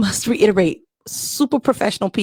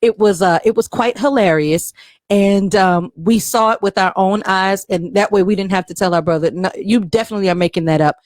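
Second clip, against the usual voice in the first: fireside storytelling. Acted. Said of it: "in the female Morgan Freeman voice".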